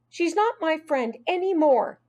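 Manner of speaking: put-on high, upset child; understated crying complaint; tearful. A narrator's reading. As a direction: disown your friend, mildly tearful. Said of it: "She was crying harder".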